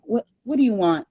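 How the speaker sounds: a hammed-up what do you want; exasperated. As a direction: throw up your hands at the Lord. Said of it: "I was like".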